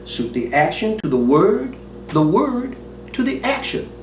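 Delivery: Hamlet instructing the players, emphatic and theatrical; Shakespearean recitation. Acted. Hamlet advising the players before the play, theatrical recitation.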